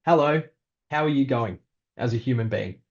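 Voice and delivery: over-eager, slightly odd greeting; weirdo voice. Shown as a demonstration. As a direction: lay it on like a strange, overly chummy host. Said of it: "I don't say it like a weirdo, like I just did".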